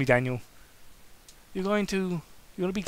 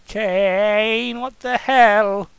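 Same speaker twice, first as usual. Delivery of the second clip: loud, higher and slow, breathless plea; desperate, breathless; 6 semitones higher, 11 dB louder, much slower than usual. Acted. Daniel pleading with Kane, desperate breathless cry. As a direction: beg him not to stop. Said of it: "in a desperate and breathlessly voice".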